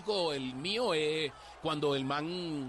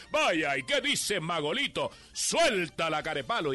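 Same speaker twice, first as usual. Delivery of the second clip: louder, punchy announcer call; imitating the DJ; 5 dB louder than usual. Lightly voiced DJ calling to the record man. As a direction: bark it like an old radio host. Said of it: "él mismo hablaba cuando decía".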